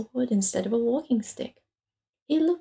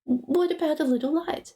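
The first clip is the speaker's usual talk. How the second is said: apologetic question; 6 semitones higher than usual. Acted.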